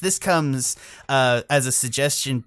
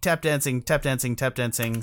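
stalling; 3 dB quieter than usual. Real, not acted. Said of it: "Ah, filling time".

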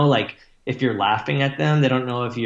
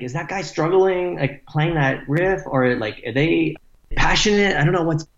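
higher-pitched puzzled questioning; retold bafflement; 4 semitones higher than usual. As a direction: replay your confusion, pitch climbing with each question. Replaying bafflement at a band's show.

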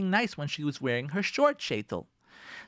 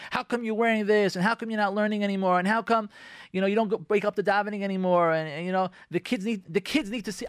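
higher, rapid-fire nagging complaints; nagging criticism; 5 semitones higher than usual. Retold or imitated. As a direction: pile on the reproaches. Quoting a nagging spouse.

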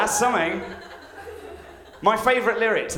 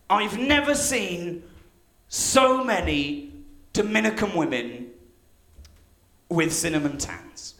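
mock tortured. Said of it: "he sounds really tortured about it".

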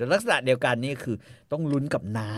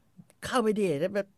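mock taunt to foreigners; 6 semitones higher, slower than usual. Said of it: "แบบคล้ายๆแบบบอกฝรั่งอะ บอก".

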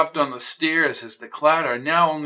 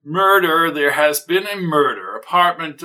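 loud, urgent "murder" down the line; frantic phone report; 3 semitones higher, 6 dB louder than usual. Acted. Shaken neighbor reports a murder to police, frantic. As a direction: blurt it out, panicked.

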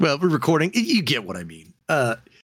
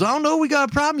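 higher voiced mock threat; tough guy line; 9 semitones higher, much faster than usual. Second guy answering the threat, mock tough voice. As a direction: echo the threat as the other guy. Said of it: "He goes".

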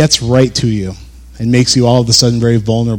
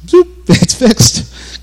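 zoop sound; 12 semitones higher, much slower than usual. Pretend. Playful imagined instant fix.

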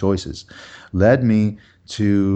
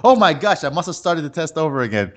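mock dismay; 7 semitones higher than usual. Caught student makes excuse to teacher, mock dismay. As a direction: blurt out a hammed-up realization.

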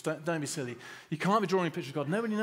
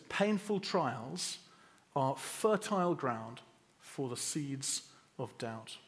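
slow quote; slower than usual. Shown as a demonstration. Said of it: "One author said this".

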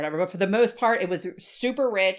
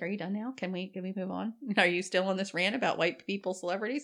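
teasing aside; 6 dB quieter than usual. Pretend. Jamie imagined teasing her.

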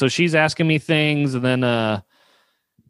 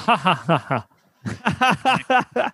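mock nurse's chuckle, ha-ha-ha; imitated laugh; 8 semitones higher, much slower than usual. Nurse reacting to his tired-every-day joke, imitated laugh. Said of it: "And she goes".

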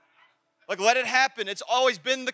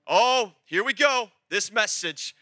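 mock groan; 3 dB louder than usual. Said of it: "ninety percent of you just shut your heads off".

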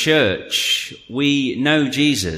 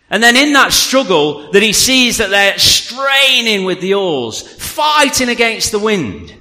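higher, emphatic preaching voice; animated preaching; 6 semitones higher than usual. Real, not acted. Preacher describing the disciples' struggle at sea, animated. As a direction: preach it with rising force.

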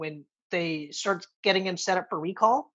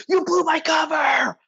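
higher, louder panicked cry; mock freaking-out shout; 8 semitones higher, 3 dB louder than usual. Schwarzenegger's character yelling at the secretary, mock panicked shout. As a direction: throw a hammy panicked yell. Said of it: "he's freaking out".

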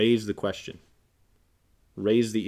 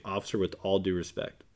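calm and respectful; 3 semitones lower, 3 dB quieter than usual. Pretend. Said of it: "You can just say".

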